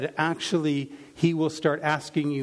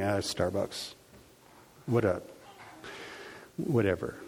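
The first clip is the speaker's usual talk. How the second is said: grumbling complaint; 6 semitones lower, 6 dB quieter than usual. Retold or imitated. Mocking complaining to congregation.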